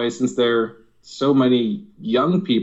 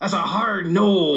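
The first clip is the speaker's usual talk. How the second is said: mock pirate voice with a growl. Like a comedian joking about how a pirate would refuse something, with a rolling, gruff seafaring growl. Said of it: "you tone it down a little bit".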